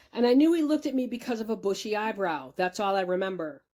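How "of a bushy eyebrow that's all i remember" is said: ordinary talk, nothing marked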